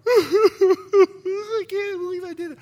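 high, slow, hammed-up disbelief; mock aghast. Congregant who yelled at his wife, mock aghast. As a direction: wail it in pretend horror.

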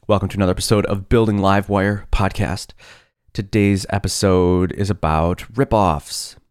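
just-woken-up morning voice. Real, not acted. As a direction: speak in your early morning voice. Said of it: "you get my morning voice".

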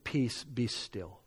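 hushed command. Retold or imitated. Quotes Jesus calming the lake.

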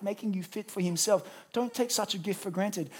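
usual speaking voice

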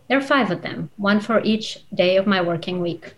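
measured literary reading voice, unhurried with pauses; story narration. A narrator's reading. Author reading her novel aloud to the audience, storytelling narration. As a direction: read it like a storyteller, letting each image land.

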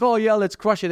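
imitated eager listener.

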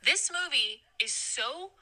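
slow, exasperated cursing; pissed off. Real, not acted. Ranting to a friend about Robin Hood, slowly pissed off. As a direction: drag out the swearing in real exasperation. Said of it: "I'm so fucking pissed about it".

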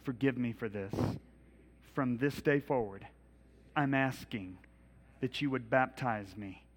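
slow, earnest prayer over music, fading to a hush at amen; led prayer. Acted. Pastor leading the congregation in a repeat-after-me prayer, slow and earnest. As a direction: pray it line by line for the room to repeat.

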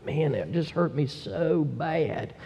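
understated moan of pain; moaning in hurt. Acted. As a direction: moan it out slowly and softly, sunk in misery. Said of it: "I mean, you're moaning".

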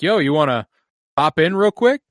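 high, loud eager invite; excited call. Retold or imitated. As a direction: call out like an excited film crew. Crew quote acted out.

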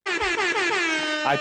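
high, slow mock proclamation; mock booming voice. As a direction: announce it grandly. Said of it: "I meant my, from my own lungs".

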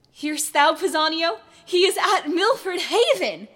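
loud, slow theatrical delivery; Shakespearean declaiming. Acted. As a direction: perform it like an audition. Rehearsing Shakespeare monologue.

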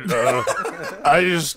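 halting mock sobs; crying Lance. Regular mourning his closed bar, mock crying. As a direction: break up the words with fake weeping. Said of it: "can you do a crying Lance".

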